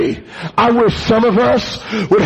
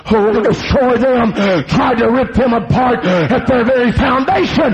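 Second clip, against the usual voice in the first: urgent sermon cadence with gasps between phrases; driving preaching; 2 semitones higher than usual. Acted. Preacher testifies about youth camp, driving sermon delivery. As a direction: surge back into punched preaching phrases.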